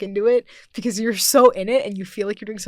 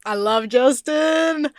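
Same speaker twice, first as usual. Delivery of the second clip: gushing; 5 semitones higher, 6 dB louder, much slower than usual. Real, not acted. Gushing about a castmate.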